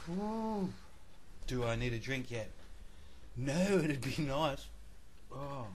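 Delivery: gasping through a burning mouth; mouth burning from spicy food. Real, not acted. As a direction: blow out the chili heat, half laughing. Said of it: "my mouth is burning".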